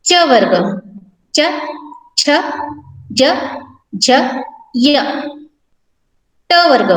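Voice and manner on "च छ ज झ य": च छ ज झ said one by one with long pauses; teacher reciting च, छ, ज, झ, each letter alone; consonant recitation. Shown as a demonstration. Teacher drills the class on the च row, slow and clear. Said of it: "इन व्यंजनों का उच्चारण करें".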